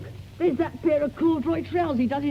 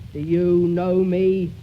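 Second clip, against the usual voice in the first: slow, loud hollow question; 4 semitones lower, 5 dB louder, much slower than usual. Shown as a demonstration. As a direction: ask it slowly, hollow and loud. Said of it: "in a hollow voice".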